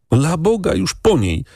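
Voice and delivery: grieving cry. A narrator's reading. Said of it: "krzyknął chłopczyna".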